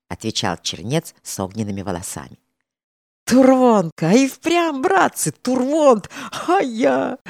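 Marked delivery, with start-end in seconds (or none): 3.2-7.2 high, loud surprised shouting; shouting in surprise. A narrator's reading. Musketeers recognize their comrade, high loud surprised shouting. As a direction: call out in disbelief. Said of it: "закричали многие из стрельцов".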